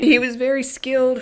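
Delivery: real voice crack mid-sentence. Real, not acted. Describing a skilled fighter, voice cracking. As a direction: let the voice crack and rise. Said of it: "my voice just cracked".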